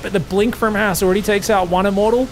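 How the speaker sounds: ordinary delivery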